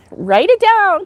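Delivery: high, laughing, slowed urging; laughing while urging. Real, not acted. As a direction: giggle it out as a playful push. Laughing, urging viewer to note.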